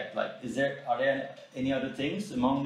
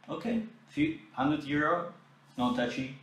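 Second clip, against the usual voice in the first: mocking recap; 4 semitones higher than usual. Mocking recap of her terms.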